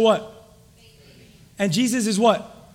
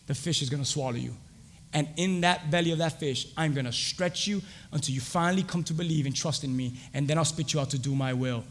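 God speaking; 9 semitones lower, 10 dB quieter than usual. Acted. Voicing God to Jonah.

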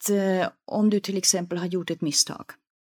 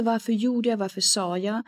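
backward brooding; 3 semitones higher than usual. Shown as a demonstration. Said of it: "istället för".

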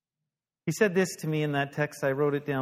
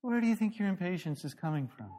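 gentle; 3 semitones higher, faster than usual. Retold or imitated. Facilitator asking the impatient pastor, mock gentle. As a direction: mimic a gentle, unhurried counselor. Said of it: "He's like all this gentle".

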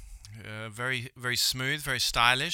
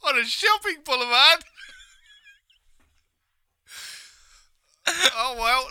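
Aussie presenter voice; 11 semitones higher, 6 dB louder than usual. Retold or imitated. Voicing Bobby Irwin.

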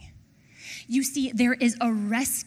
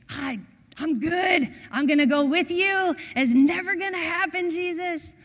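high, loud, cocksure protest; bold overconfidence; 6 semitones higher, 4 dB louder than usual. Acted. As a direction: insist boldly, voice pitched right up. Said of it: "His boldness".

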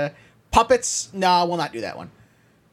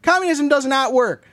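hammed-up angry rant; 2 semitones higher than usual. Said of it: "what are you so mad about".

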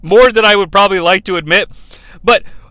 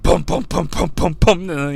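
pounding sound effect; 2 semitones lower, 5 dB quieter than usual. Retold or imitated. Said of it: "the glass breaks".

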